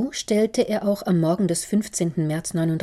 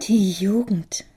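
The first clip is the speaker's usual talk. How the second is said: sighing; 3 semitones higher, 4 dB louder, slower than usual. Acted. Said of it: "seufzte Otto".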